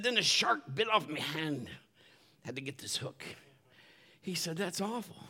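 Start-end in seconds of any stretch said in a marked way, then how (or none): 0.0-3.2 pirate voice. Retold or imitated. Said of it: "my pirate voice". 4.6-5.2 pirate voice. Retold or imitated. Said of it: "my pirate voice".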